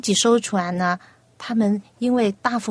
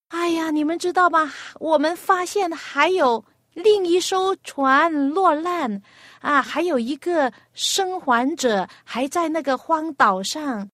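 higher, excited report of a survivor left behind; urgent rescuer; 5 semitones higher than usual. Acted. Rescuer urgently tells the families about a stranded survivor, higher and excited. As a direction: sound the alarm, urgently and higher.

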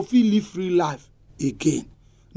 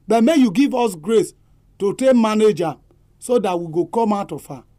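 prayer; 2 semitones lower than usual. Acted. Pastor closes with prayer.

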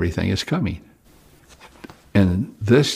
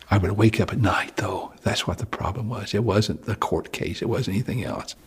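much softer, almost whispered; hushed confession; 6 dB quieter than usual. Real, not acted. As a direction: confide the trouble quietly. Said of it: "confessing nightmares".

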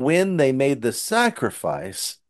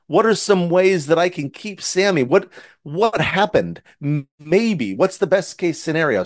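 put-on higher, anxious boy's voice, fast at first; worried little boy; 5 semitones higher than usual. Boy Rufus worrying about keeping his lamb, higher and anxious. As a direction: fret like a kid hiding his pet. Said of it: "and he's going".

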